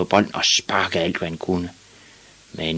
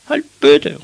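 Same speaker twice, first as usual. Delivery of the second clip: put-on high, loud little-boy outburst; boy's shout; 11 semitones higher, 8 dB louder than usual. A narrator's reading. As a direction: snap back at the teasers, pitched high. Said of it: "råbte Ivan".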